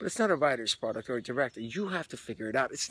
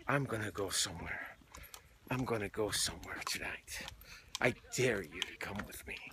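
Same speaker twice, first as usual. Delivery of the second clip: quiet, softer pre-show vow; hushed actor's dare; 4 semitones lower, 5 dB quieter than usual. Retold or imitated. Actor to huddled castmates before the show, hushed. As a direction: half-whisper it like a private dare. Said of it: "an actor would always say".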